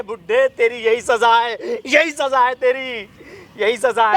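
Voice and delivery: slow, drawn-out bitter cry; anguished rant, stretched words; distraught ranting. Acted. Son rants at his jailed father.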